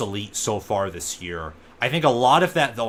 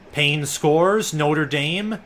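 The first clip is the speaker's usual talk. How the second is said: excited; 5 semitones higher, 6 dB louder, much slower than usual. Real, not acted. Live touchdown call.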